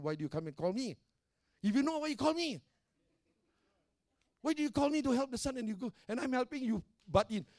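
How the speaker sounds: high-pitched, exasperated retort, retold; retold scolding. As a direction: recount telling off an interfering mother. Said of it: "I'm sorry I scolded you".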